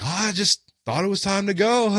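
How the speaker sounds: high imitated voice breaking into a giggle; mock tipsy excuse with a silly laugh; giggly drunk. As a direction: play oblivious, then titter. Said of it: "And we're like, giggle".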